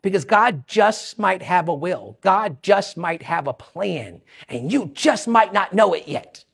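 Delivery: low, softened, measured delivery; slow and quiet. Real, not acted. Preacher telling listeners God might have a plan, slow and quiet. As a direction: let each phrase land slowly and softly. Hushed point after a long pause.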